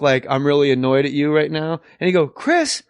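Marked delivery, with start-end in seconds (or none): 0.3-1.8 fake annoyance. Shown as a demonstration. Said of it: "like, the fake". 2.3-2.8 higher-pitched fake-angry scolding; mock annoyed scolding. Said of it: "One of his go-to characters is the, like, mock".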